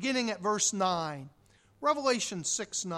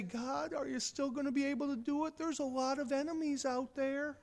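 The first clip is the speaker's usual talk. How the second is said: softer, anxious mumble to God; a worried prayer the martyrs never said; doubtful fretting; 4 semitones higher, 7 dB quieter than usual. Retold or imitated. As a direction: fret quietly, unsure of God. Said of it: "They don't say".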